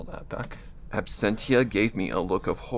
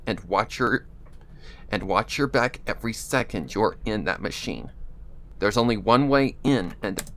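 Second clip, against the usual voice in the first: Absentia voice. Acted. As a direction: speak a little through the nose. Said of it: "the Absentia voice is a lot more easier".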